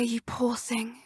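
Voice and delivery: soft unvoiced pity; whispered comfort to a friend; whispered sympathy. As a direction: breathe it gently. Comforting a hurt companion.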